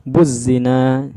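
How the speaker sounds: "buzzina" going straight from bu into doubled z; silent lam. Shown as a demonstration. Teacher showing hidden lam, "buzzina" with no l. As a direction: skip the l and hold the z in "buzzina". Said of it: "lamnya nggak nampak".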